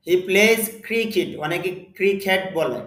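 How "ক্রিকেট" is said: ক্রিকেট as "kri-ket", e in the ending; ক্রিকেট with an open second syllable, "ket"; Bengali pronunciation. Shown as a demonstration. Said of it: "ক্রিকেট উচ্চারণটা হলো বাংলা উচ্চারণ".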